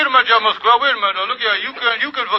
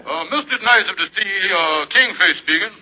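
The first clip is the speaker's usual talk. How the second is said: playing the Kingfish. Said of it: "when I'm playing the Kingfish".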